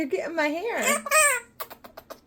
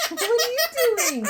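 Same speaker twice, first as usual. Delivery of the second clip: laughing; 3 dB louder, faster than usual. Real, not acted. Laughing playfully at baby.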